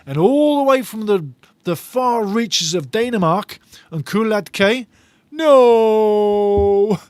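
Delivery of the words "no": mock Danish accent, pitched higher with a slow "I missed it". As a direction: read the viewer's line in a put-on Danish accent. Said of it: "In a Denmark accent".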